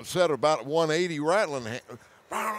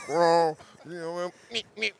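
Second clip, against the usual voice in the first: mock timid grunt call. Shown as a demonstration. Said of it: "caress it".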